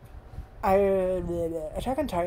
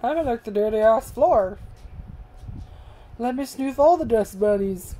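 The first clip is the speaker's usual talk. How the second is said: talking to the dog; 7 semitones higher than usual. Real, not acted. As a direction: tease Barney like a fussing pet owner. Owner scolds and coos at dog.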